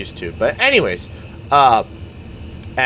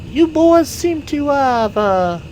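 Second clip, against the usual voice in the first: high, drawn-out Southern lady voice; slow, high-pitched lady with a Southern lilt; 3 dB louder, much slower than usual. Acted. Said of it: "and the lady is just like".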